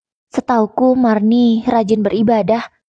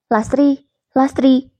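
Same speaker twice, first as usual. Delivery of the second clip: a higher call of her name through the house; 4 semitones higher, slower than usual. A narrator's reading. Husband calling for his wife around the house, calling out. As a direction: call for your wife from another room. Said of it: "kupanggil dia".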